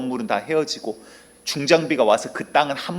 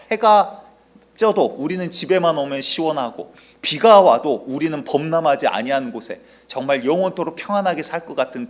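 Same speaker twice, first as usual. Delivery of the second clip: excited ant; 2 semitones higher, 5 dB louder than usual. Acted. Contented ants boasting of home.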